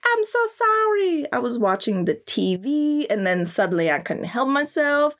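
a lightly voiced flustered creature; lightly voiced monster, apologetic; mock apologetic monster.

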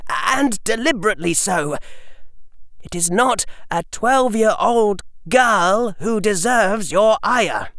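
put-on a calm boy reasoning with a lord; young boy voice. A narrator's reading.

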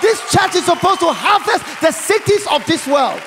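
loud pulpit cry stressing "this". Real, not acted. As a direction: drive home the word "this". Repeats with stress on this.

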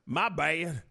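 loud, slow Southern hillbilly voice; Southern hillbilly accent. Acted. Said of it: "He does a white voice, it's always a Southern hillbilly voice".

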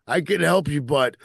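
mock cry for help. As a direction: plead like a trapped agent, hammed-up. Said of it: "cries out for help".

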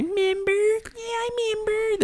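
very high, squeaky cartoon fruit voice; tiny squeaky voice, slow and dreamy; Member Berries voice. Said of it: "And they say".

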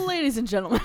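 laughing announcement. Pretend. Resuming pilot announcement.

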